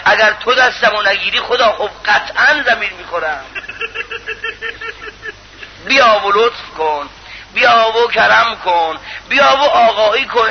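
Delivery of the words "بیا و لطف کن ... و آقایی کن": slow, drawn-out entreaty; lingering supplication; pleading prayer. Acted. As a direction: beg God, stretching each request.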